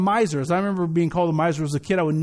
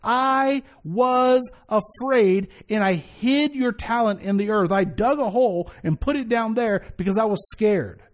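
mock fearful servant; slower than usual. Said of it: "he says this, quote".

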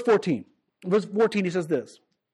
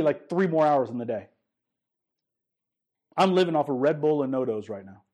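weary complaint; 7 semitones lower than usual. Retold or imitated.

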